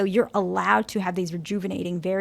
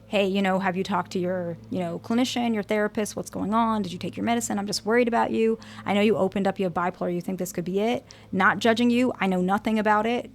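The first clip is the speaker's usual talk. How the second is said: calm and gentle. Retold or imitated. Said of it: "like, more calmly".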